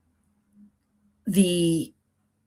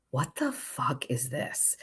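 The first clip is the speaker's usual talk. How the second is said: slow, much softer, muttered disbelief; baffled under breath; 2 semitones lower, 10 dB quieter, slower than usual. Retold or imitated. Finds neighbor's wallet, baffled.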